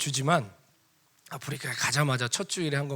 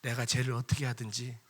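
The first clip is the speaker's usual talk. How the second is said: gentle; 3 semitones lower than usual. Retold or imitated. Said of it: "주님 온유한 말씀으로".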